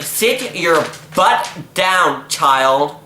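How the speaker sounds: drawn out, strict like a scolding mum; slow stern order. Retold or imitated. Tutor ordering the kid to sit, slow and stern. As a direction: lay down the law slowly. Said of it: "So I'm like".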